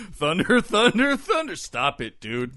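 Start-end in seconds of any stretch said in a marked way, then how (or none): 0.1-1.5 each thunder higher and louder; rising battle cry. Pretend. Lion-O mocked, building his battle cry.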